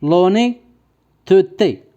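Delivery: لونيتوتي drawn out, with the middle schwa sounded; middle e pronounced. Shown as a demonstration. Teacher dictating a spelling word to pupils, middle e sounded in لونيتوتي. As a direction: say لونيتوتي slowly, syllable by syllable, keeping the middle e. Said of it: "او بيان لونيتوتي".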